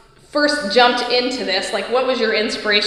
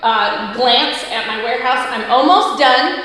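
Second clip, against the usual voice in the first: echoey. Real, not acted. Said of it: "which is why I sound a little echoey".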